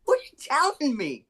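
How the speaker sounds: high, rising cries of disbelief; retold shocked outburst. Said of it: "I was shocked".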